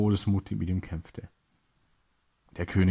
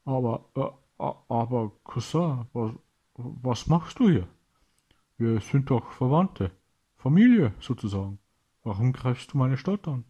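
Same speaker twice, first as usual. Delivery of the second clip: a stunned king stuttering in disbelief; aghast and pleading; horrified stammer; 5 semitones higher, 4 dB louder than usual. A narrator's reading. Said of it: "schaut ihn entsetzt an".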